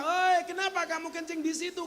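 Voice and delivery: mock shout at the man, pitched high; retold shout. Worshippers shouting at the man by the imam's spot, mock yell. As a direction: call out in alarm, half-played. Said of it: "Umat waktu itu teriak".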